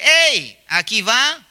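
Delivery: mock shout. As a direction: call out as the dress drawing looks. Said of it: "ese vestido está gritando y dice".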